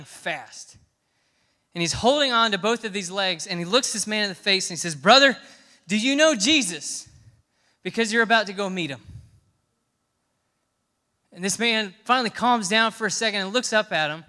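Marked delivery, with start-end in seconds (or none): 4.9-9.0 great-grandfather urgently asking a dying man about Jesus; urgent plea. Retold or imitated. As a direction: plead with him urgently, brother to brother.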